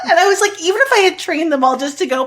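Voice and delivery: laughing hard while talking, pitch way up; real laughter breaking through the words. Real, not acted.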